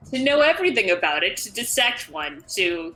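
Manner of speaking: lightly voiced clinical company agent; a hint of a detached corporate researcher. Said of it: "that's what the voice is all about".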